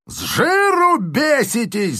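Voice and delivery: high, slow howled insult; major yelling. A narrator's reading. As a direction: howl it after him. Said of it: "завопил ему вслед майор". (вопит вслед, высоко и медленно)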